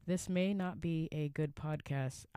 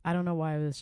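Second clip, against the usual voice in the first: loud; 6 dB louder, faster than usual. Real, not acted. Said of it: "I feel like I'm yelling into the microphone".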